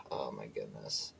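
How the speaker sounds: very low, slow, soft mutter; weary exasperation. Real, not acted. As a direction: sigh it out quietly, deep and drawn out. Computer cut out during reading.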